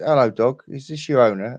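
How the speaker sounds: mock friendly greeting to a dog; calling to the dog. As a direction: call out brightly to the dog. Englishman addresses dog.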